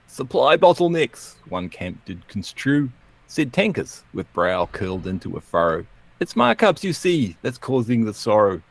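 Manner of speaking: theatrical, lilting comic verse; poem recital. Acted. Outro poem on an economists' feud, recited theatrically. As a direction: read it out with swinging pitch and measured rhythm.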